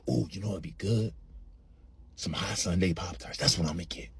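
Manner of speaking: low, soft musing to oneself; hushed stoned craving; craving murmur. Retold or imitated. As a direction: murmur it as a tempting idea. Stoned craving thought in store.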